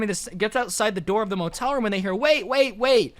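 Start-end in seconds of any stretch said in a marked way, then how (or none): 2.1-3.2 higher, urgent call to stop; calling after. Retold or imitated. Attic stranger calling after the fleeing visitor, urgent. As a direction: try to stop someone running away.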